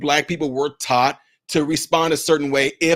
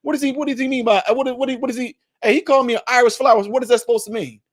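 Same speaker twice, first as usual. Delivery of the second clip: confused listener; 6 semitones higher, faster than usual. Retold or imitated. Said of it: "you're gonna be questioning yourself".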